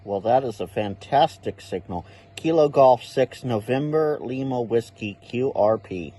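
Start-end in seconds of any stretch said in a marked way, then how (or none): 2.4-6.1 loud call sign into the mic; loud on-air call sign; calling on the radio. Acted. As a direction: punch the first word to grab the contact.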